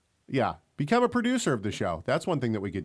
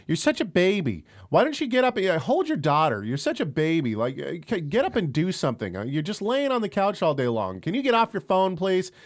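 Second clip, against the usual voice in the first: nagging wife; 6 semitones higher than usual. Retold or imitated. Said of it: "she's like".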